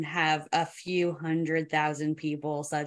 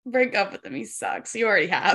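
breathless gossip. Acted. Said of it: "his gossip voice".

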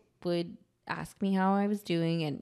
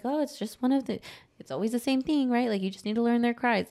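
higher, sing-song preachy advice; mock advice voice; 5 semitones higher than usual. Mocking people who lecture a new mom. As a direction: lightly mimic the know-it-all.

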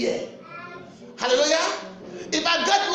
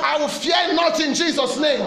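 shouted declaration; 4 dB louder than usual. Shown as a demonstration. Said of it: "Tell yourself".

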